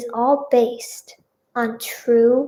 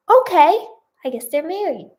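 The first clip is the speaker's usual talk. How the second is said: bemused acceptance; 5 semitones higher than usual. Real, not acted. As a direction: concede it, still puzzled. Reader accepts the plot twist.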